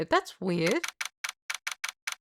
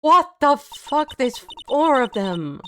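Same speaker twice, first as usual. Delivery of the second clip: shocked outburst; 5 semitones higher, slower than usual. Real, not acted. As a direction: blurt it out in disbelief. Reacting to four Cyclops.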